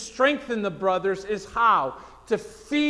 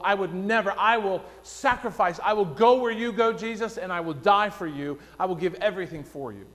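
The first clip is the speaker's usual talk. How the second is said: proud and boastful; faster than usual. Retold or imitated. Peter vowing to Jesus he'll never fail, mildly boastful. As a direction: swear loyalty with mild bravado. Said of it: "Very pride, very boastful".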